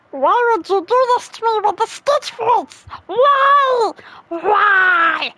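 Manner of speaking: hammed-up cry of betrayal; mock whiny outcry. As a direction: wail at the screen in playful despair. Mock outrage at the game.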